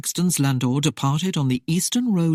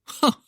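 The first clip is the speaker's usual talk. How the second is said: derisive laugh. A narrator's reading. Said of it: "brief, derisive laugh".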